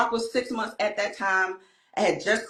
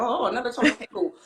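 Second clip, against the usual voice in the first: barely excited; 4 semitones higher, faster than usual. Retold or imitated. Mother imitating her six-year-old son getting a toy, barely excited. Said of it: "He barely get excited".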